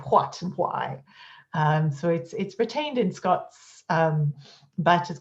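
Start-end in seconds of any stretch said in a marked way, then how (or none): 0.1-1.0 "what" and "why" with a breathy HW onset; posh Edinburgh "what" and "why"; aspirated what and why. Shown as a demonstration. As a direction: say "what" and "why" as hwat and hwy. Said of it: "a posh Edinburgh speaker if you say".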